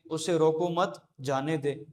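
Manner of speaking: teacher shows an unclear sentence, read straight through with no break; unclear unpunctuated reading. Shown as a demonstration. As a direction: run "रोको मत जाने दे" together with no pause. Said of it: "इसमें बात वाज़ेह नहीं होती".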